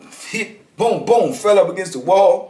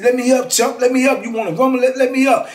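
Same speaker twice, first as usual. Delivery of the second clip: retold dare; 9 semitones higher than usual. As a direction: bark it like you want the rumble. Pinned, daring him to fight.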